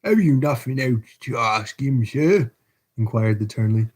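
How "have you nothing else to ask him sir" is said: corrected turnkey's voice. Acted. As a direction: redo the line as the turnkey. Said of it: "wrong voice".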